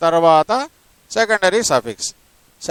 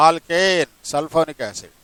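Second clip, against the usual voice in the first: very slow, each word spaced out; slow dictation; 3 semitones lower, 5 dB quieter, much slower than usual. Shown as a demonstration. Teacher dictating a name to the student, very slow. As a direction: dictate it slowly for the notes. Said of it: "teacher dictating note to student".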